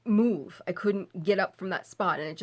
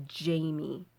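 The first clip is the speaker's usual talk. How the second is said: mock low growl; 4 semitones lower, 5 dB quieter than usual. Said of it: "a low male voice growl".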